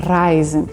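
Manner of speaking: reisen with a rolled, Italian-style R; rolled southern R. Shown as a demonstration. Teacher demonstrating her rolled southern German R in reisen. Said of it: "eu falo esse R porque é um R do sul, rolado".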